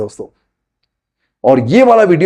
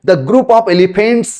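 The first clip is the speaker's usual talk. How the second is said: very slow, deliberate example sentence; teacher slowly modelling the easy version of the sentence; slow demo sentence; much slower than usual. Shown as a demonstration. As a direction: lay each word out slowly for beginners. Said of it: "Enough है दोस्तों".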